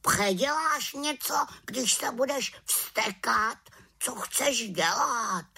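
high croaky bird voice; reasoning raven. A narrator's reading. Raven challenges the angry little witch, high reasoning croak. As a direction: question her in a high squawk.

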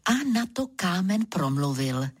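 ordinary delivery, nothing marked

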